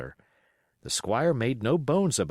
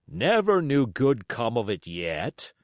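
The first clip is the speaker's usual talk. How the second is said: dour captain; 3 dB louder than usual. Acted. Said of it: "the captain said".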